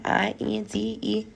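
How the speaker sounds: soft, slow letter-by-letter spelling; spelled out proudly. Retold or imitated. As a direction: spell it out slowly like a proud badge. Spelling out her independence.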